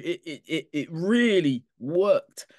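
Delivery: laughing through the words. Real, not acted. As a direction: chuckle while insisting it worked.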